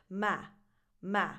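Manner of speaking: ma as a strong syllable with the A of bad; open A vowel. Shown as a demonstration. Teacher isolating the stressed syllable, ma with the A of cat. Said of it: "with that a vowel".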